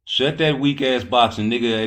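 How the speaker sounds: loud and high, telling them off; scolding shout. Real, not acted. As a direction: bark it at the chat.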